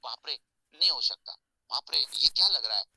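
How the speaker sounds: loud, pained cry of a struck stone. Acted. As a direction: yell out as each blow lands. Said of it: "अब अंदर से आवाज आ रहा है पत्थर के". (चोट खाते पत्थर की ज़ोरदार कराह)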